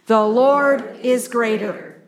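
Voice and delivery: slow and firm, leaning on "Lord"; slow unison recitation. Shown as a demonstration. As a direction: spell it out slowly so the listeners can join in. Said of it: "Say it with me".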